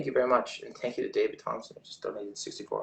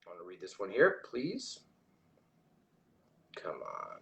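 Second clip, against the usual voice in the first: whispered urging; 4 semitones lower, 4 dB quieter than usual. Real, not acted. Urging the chat button to load.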